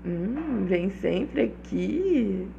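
slow, sultry phone operator; sexy phone line voice. Shown as a demonstration. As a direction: purr it like a sex-line operator. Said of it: "voz de atendente de Disque Sexo".

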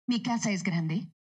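"Mi casa es grande?" flowing, rising on "grande". Shown as a demonstration. Dubbing actress showing a natural question, rising intonation. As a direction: ask "Mi casa es grande?" naturally, lifting the end. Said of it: "si lo digo más natural".

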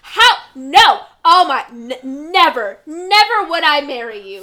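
loud, indignant mock refusal; mock offended outburst. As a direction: act scandalized at the very idea. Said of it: "pretends to get all offended".

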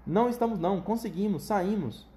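animated. Acted. Wonka reassuring Grandpa Joe, mildly animated. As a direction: answer with glee. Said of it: "animado, o senhor Wonka dizia".

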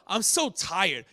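low, weary complaint; mock tired reply. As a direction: play a worn-out person answering a greeting. Acted weary reply to greeting.

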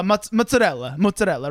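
"mozzarella" in full, Italian-style "motsarella"; correct pronunciation. Shown as a demonstration. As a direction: say "mozzarella" evenly with a ts and every syllable. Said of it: "so it's".

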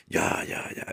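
breathy dismissive whisper; whispered reluctant ya. Retold or imitated. Mother grudgingly giving in, whispered. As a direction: brush it off under your breath. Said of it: "mother's reluctant reply".

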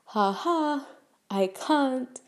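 light, high-pitched retold refusal; mock polite brush-off. Light brush-off of demanding messager.

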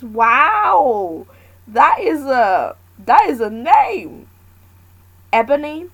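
loud, high, delighted wow; surprised delight at Venus's full name; amazed. Real, not acted. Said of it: "reacting to a surprising name".

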